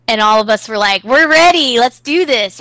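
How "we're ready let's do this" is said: mock-eager, pitched up and louder; eager group reply. Siblings answering brother's invite to play, eagerly. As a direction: play the squad all fired up.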